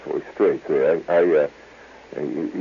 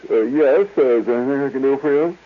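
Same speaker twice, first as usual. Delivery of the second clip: quick, higher put-on voice; smooth floorwalker; 6 semitones higher than usual. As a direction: rattle off the courtesy fast. Unctuous floorwalker arrives.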